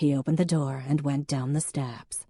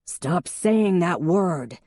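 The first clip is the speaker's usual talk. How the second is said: slow, louder, each word bitten off; barked; 2 semitones higher, 5 dB louder, much slower than usual. Acted. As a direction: bark it slowly as a warning. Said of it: "he barked".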